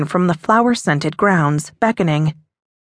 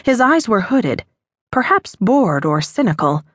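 ordinary delivery

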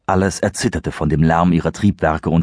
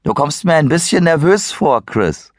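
teasing, amused higher voice; grinning tease; 10 semitones higher, 3 dB louder than usual. Acted. Kyle teases nervous Chris with a grin. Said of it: "sagte er grinsend".

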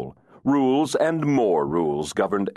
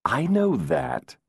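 dry; 11 semitones higher, slower than usual. Acted. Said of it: "Adam said dryly".

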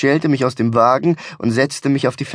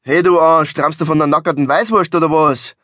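loud attack on the first words; barked insult; 3 semitones higher, 4 dB louder than usual. Acted. Angry driver barks at the slowpoke in the next car, barked insult. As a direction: bark it across at a dozy motorist in Bavarian. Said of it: "bellte er zu der Schlafmütze hinüber".

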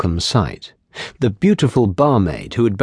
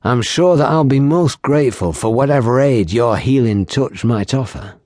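kindly; 2 semitones higher than usual. Acted. Wounded Yassen answering the barmaid, mildly kind. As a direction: thank her kindly, understated. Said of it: "Yassen said kindly".

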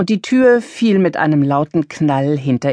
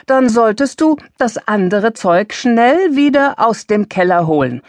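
sharp retort; 6 semitones higher, 3 dB louder than usual. A narrator's reading. Mother answers daughter sharply.

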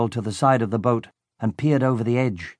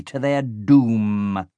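menacing villain; much slower than usual. Acted.

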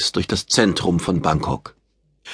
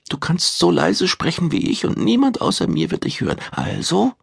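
much higher, pressing woman's voice; insistent woman; 10 semitones higher than usual. A narrator's reading. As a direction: push him to speak, voiced high as a woman. Silvia presses him, higher woman's voice.

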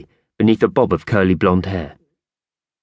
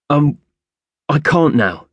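put-on hesitant fearful boy; 8 semitones higher, 3 dB louder than usual. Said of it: "Gray seemed reluctant, even fearful".

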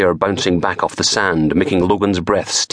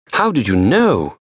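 higher, curious question; puzzled pathologist; 5 semitones higher than usual. Acted. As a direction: ask how he knew.

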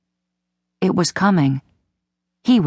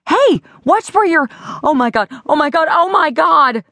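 suddenly terrified, words tumbling out; sharp alarm breaking into frantic repeats; panicked; 7 semitones higher than usual. Acted. Run over by oxen, panicking.

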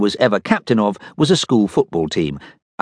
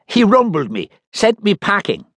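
Slimy's voice; 12 semitones higher than usual. Acted. Slimy explains.

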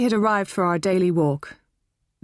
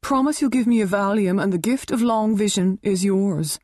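sly bargaining; 4 semitones higher than usual. Acted. Helen bargaining.

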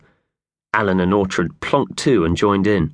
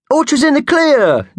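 much higher, louder happy cheer; 6 dB louder than usual. Acted. Mickey Thompson cheers to his friends, much higher and louder. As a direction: cheer it out with relief. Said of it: "cheered Mickey Thompson".

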